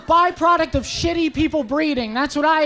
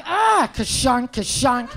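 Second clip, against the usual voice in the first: slow, lower mechanical clunk sound effect; mimicked ka-shunk noise; 3 semitones lower, slower than usual. Comic describing how women react to his voice, mimicked clunking. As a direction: voice a clunk slamming shut, drawn out.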